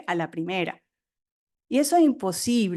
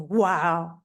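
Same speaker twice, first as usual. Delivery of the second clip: amazed; 5 semitones lower than usual. Retold or imitated. Retells amazement at her success.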